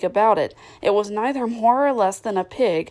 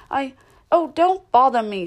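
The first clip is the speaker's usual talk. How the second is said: snapping; 5 semitones higher, 5 dB louder than usual. Acted. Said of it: "Duchess snaps at Alice".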